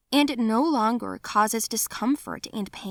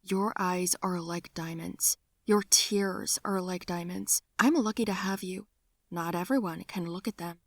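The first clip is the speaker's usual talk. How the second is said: tender; 3 dB quieter than usual. Retold or imitated. Derek comforts her tenderly.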